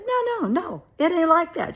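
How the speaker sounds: very high, loud imitated protest; frantic denial. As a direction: act out panicked backpedalling, loud and high. Acted frantic denial in quarrel.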